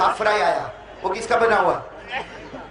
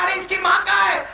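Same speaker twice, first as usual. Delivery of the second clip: higher shouted question; hammed-up indignant shout; outraged demand; 5 semitones higher than usual. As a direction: demand it in mock fury. Retold angry question repeated.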